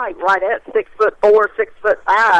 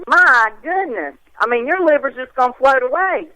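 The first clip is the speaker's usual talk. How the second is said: mock dismay; 5 semitones higher than usual. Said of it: "And I'm like".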